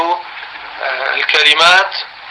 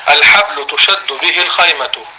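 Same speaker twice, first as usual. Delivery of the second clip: very slow dictation; slow repeat; slower than usual. Shown as a demonstration. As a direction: repeat slowly so they can write. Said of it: "هرجع".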